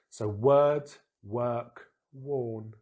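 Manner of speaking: word and work with er, worn with or; model words. Shown as a demonstration. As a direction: sum up the contrast. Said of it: "our odd one out".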